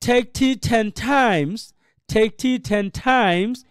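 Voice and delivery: "take tea ten times" firmly, with "times" held long; bold stressed reading. Shown as a demonstration. Teacher urges bold classroom practice, firm drawn-out "times". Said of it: "আরো জোরে, খুবই boldly".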